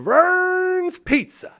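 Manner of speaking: "Vern's Pizza" sung out high and very slow; drawn-out hype. Real, not acted. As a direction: stretch the name like a big reveal. Ad read names sponsor.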